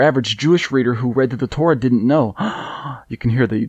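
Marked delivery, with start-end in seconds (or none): 2.4-3.0 mock gasp. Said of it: "the sarcasm in my voice".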